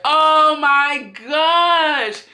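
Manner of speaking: high, drawn-out slow oh my gosh; stunned gasp. Retold or imitated. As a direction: let it stretch out in disbelief. Shocked at drunk sister dancing.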